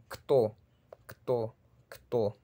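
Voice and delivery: kto with k running straight into t; one syllable kto, no vowel between k and t; Russian word demo. Shown as a demonstration. Teacher modelling Russian quién, kto in one syllable. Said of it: "La palabra quién".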